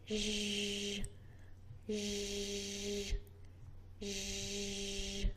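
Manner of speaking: soft voiced zh buzz; zh sound. Shown as a demonstration. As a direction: hum a voiced zh like in measure. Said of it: "This is pronounced similarly to the Z".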